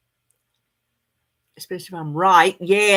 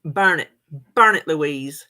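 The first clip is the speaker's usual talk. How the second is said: loud, emphatic push; urging; 2 semitones lower, 5 dB louder, slower than usual. Real, not acted. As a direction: command her, louder.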